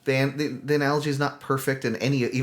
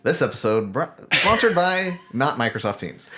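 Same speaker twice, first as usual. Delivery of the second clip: laughing; 4 semitones higher, 5 dB louder than usual. Pretend. Joking fake sponsor line, laughing.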